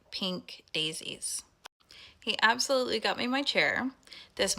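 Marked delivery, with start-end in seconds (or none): 0.1-1.4 inner whisper. Retold or imitated. Thinking to herself in her mind.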